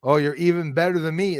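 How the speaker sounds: ordinary talk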